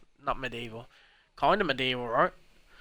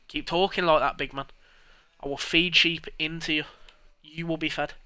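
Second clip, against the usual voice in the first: mock trash talk; 4 semitones higher, 4 dB louder than usual. Trash talk at game character.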